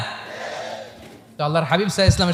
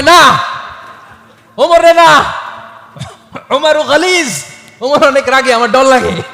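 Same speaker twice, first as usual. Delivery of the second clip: put-on much higher and louder, a young wife pleading not to call the harsh Umar; squeaky, fearful girlish voice, loud; Aisha's frightened voice; 6 semitones higher, 9 dB louder, slower than usual. Aisha voiced in a retold story. (আয়েশার ভয় পাওয়া মেয়েলি গলা, অনেক উঁচু ও জোরে)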